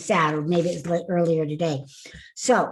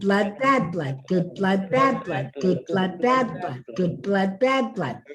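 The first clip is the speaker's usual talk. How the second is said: tongue twister drill; 3 semitones lower than usual. Shown as a demonstration. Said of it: "And then tongue twisters".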